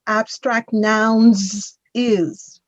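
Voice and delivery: "is" set apart and drawn out; stress on IS. Retold or imitated. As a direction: quote it slowly, leaning on "is". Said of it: "pay attention to your verbs".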